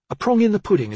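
cheeky innuendo. Acted. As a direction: tease with crude relish. Barbara's crude joke.

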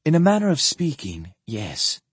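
calm, understated admission. Acted. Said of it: "she replied calmly".

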